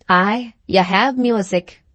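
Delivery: slow, a touch gloomy admission; gloomily. Acted. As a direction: concede it slowly, a little downcast. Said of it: "said Alan gloomily".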